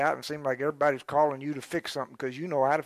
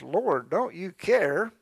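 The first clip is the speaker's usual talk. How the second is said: slow, louder plea of Martha; pleading Martha; 4 semitones higher, 4 dB louder, slower than usual. Acted. Preacher voicing Martha, slow aggrieved plea. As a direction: drag out don't you care like a hurt hostess. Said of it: "She came to him and asked".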